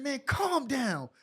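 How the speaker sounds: the polite version of what he said; calm version. Retold or imitated. Player telling the panicking coach to relax, slow and calm. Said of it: "I ain't say it like that".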